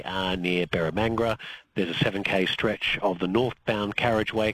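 even, informational radio traffic read; brief drivers on the road conditions; traffic report. Real, not acted. Traffic reporter updates radio listeners on roadworks and delays, informational read.

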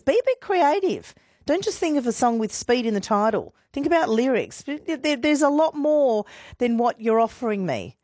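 high-pitched, playful nagging; coaxing complaint. Real, not acted. Radio host chiding listeners for obvious song picks, coaxing complaint. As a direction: push them for better, pitched well up.

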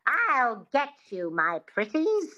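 a light Wicked Witch twang, drawn out; slow witchy line, mildly voiced; witch twang demo. Shown as a demonstration. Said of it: "Just say that".

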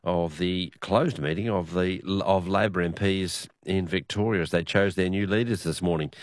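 radio news bulletin delivery; news read. Acted. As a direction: read out the day's political news to listeners. Presenter reads the news round-up.

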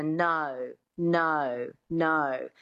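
"no" with a little schwa before the O; Australian twang on each "no", schwa gliding into O; Australian O sound. Shown as a demonstration. Accent coach recalling the tricky sound, "no" in Australian twang. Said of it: "the sound that we talked about before".

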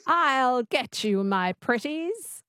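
lightly voiced twangy witch, slow; learner's tentative witch impression; Wicked Witch. Shown as a demonstration. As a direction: copy a witch's twang, drawn out. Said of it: "Just say that".

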